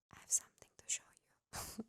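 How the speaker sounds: hushed secretive whisper. Retold or imitated. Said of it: "whispers to me".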